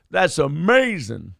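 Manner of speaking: slow, over-sweet mock amazement; drawn-out mock praise. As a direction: stretch it out, mock the gushing. Quoting pundit's gushing.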